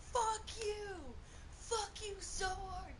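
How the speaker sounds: high, loud, stretched-out cursing; retold angry outburst. Retelling a girl cursing out Mom, angry outburst.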